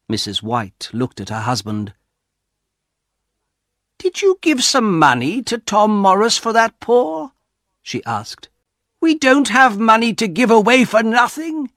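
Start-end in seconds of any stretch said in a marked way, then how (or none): 4.0-11.7 high, sharp angry questioning; angry wife. Acted. Wife scolding her husband over the paw, angry and loud. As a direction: scold him like a wife furious about wasted money. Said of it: "Missus White was angry now".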